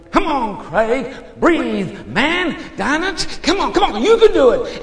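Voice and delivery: high, far-off urging; distant little voice. Retold or imitated. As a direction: imitate distant rescuers pleading in a high voice. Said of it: "distant little voice".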